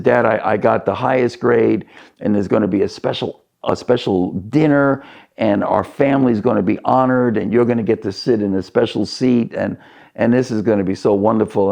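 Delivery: lightly acted proud, eager son; mild excitement, tumbling along quickly; a touch of elation, rushing to share good news; elated son. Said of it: "and he's elated".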